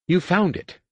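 high, excited cry of discovery; excited exclaim. A narrator's reading. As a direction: burst out in triumph. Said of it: "Danny exclaimed".

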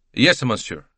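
put-on obliging reply with an Italian accent; lightly voiced Italian; slight Italian accent. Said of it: "with only a slight accent".

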